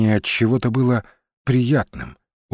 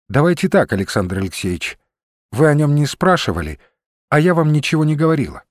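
lightly voiced woman, mostly higher; Olga making a deal; 4 semitones higher, faster than usual. Olga offers Rusinov a pact of silence, firm. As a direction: propose a pact, pitch slightly raised.

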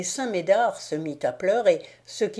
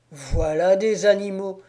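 louder, furious outburst; angry exclamation; 5 dB louder than usual. Acted. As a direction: spit it out in rage. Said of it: "s'écria-t-il". (le diable s'écrie, furieux)

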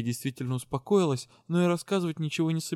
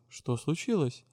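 a softer, puzzled "Что случилось?"; surprised question; 3 dB quieter, slower than usual. Acted. A friend asks the heroine what happened, quietly surprised. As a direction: ask "Что случилось?" quietly, taken aback. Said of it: "Янка удивлённо спросила".

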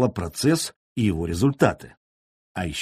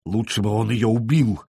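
with pathos. Acted. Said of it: "с пафосом воскликнул Имислав".

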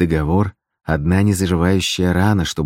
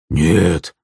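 cry out; 3 dB louder than usual. Acted. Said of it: "вскрикнул Вадзим".

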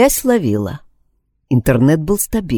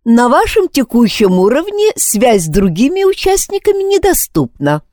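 higher, mechanical robot voice; rusty robot; 8 semitones higher than usual. A narrator's reading. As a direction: read it like a machine answering. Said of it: "механический голос ответил".

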